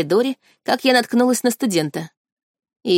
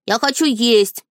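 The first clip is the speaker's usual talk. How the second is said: slow, higher, nagging "хочу"; insistent whining; 4 semitones higher, slower than usual. A narrator's reading. Boy spirit nagging the girl for food, slow and higher. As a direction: drag out "хочу" like a hungry child nagging. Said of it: "заладил мальчик".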